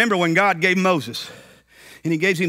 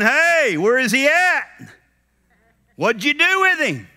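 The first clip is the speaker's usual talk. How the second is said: mary pleading; 8 semitones higher than usual. Acted.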